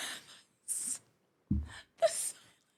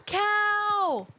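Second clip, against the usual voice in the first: higher delighted gasp; gasped surprise; 8 semitones higher than usual. Real, not acted. Spotting a cow, a high gasped cry. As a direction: gasp as if you found treasure.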